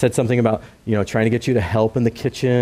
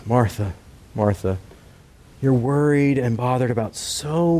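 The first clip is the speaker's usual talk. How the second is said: gentle. Acted. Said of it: "He's, he's being very gentle, very compassionate".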